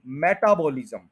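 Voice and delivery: मेटाबॉलिज्म said with even, flat stress; मेटाबॉलिज्म the wrong way. Shown as a demonstration. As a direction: show the common mistake in मेटाबॉलिज्म. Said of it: "ये word मेटाबॉलिज्म नहीं है".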